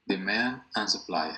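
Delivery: slow model of Demand and supply with man stressed. Shown as a demonstration. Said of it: "el acento va en man".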